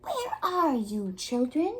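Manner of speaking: high, loud call up into the tree; shouted. A narrator's reading. Wolf shouting for the missing children in the tree. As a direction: shout it out impatiently. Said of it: "the wolf shouted".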